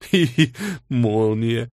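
slow, giggly, mocking voice; drawn-out teasing giggle; tittering over the word; gleeful giggle. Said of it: "Маша радостно захихикала".

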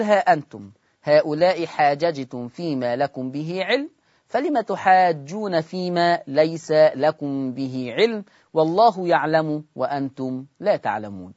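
measured tajweed recitation; Quranic recitation. Shown as a demonstration. Teacher reciting the next verse to students. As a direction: recite the verse in steady chant.

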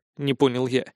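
usual speaking voice

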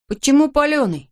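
put-on the boy squeezes out a frightened question; squeezed out. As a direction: force the words out through fear. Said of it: "выдавил Пол".

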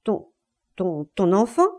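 halting, disbelieving question; stunned stammer. Acted. Husband hears her demand the child, stammering in shock. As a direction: stumble on the first word, stupefied. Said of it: "stupéfait, balbutia".

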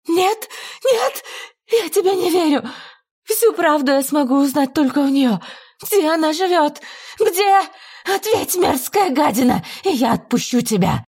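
very high, shrieking demand; frantic demand. Acted. Lady demands the address from the visitor, shrieking high.

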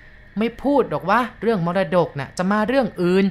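ordinary delivery

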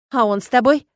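suddenly lively, loud question; perked up. A narrator's reading. Agata pressing her friend about the dragon, lively and eager. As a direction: pounce on it with eager interest. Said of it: "оживилась Агата".

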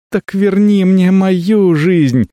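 high, slow desperate shriek. A narrator's reading. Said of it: "завизжала Микиарис".

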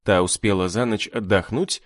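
ordinary delivery, nothing marked

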